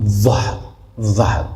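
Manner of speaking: "ظهر" with a heavy, full first consonant; full, emphatic za. Shown as a demonstration. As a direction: thicken the opening sound of "ظهر". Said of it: "مفخم یا پر". («ظهر» با ظای مفخم و پر)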